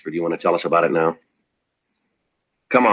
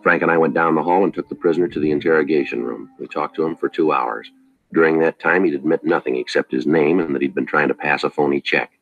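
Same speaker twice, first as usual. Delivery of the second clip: flat, matter-of-fact police narration; story narration. A narrator's reading. Detective narrating the case to listeners, in a dry, even report.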